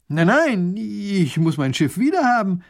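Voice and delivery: hammed-up childish protest; insistent duke. A narrator's reading.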